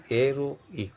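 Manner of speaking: "aeroic" begun on E, "ero" then "ik"; silent h. Shown as a demonstration. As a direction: split "aeroic" before "ic", no h. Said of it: "I'm repeating once again".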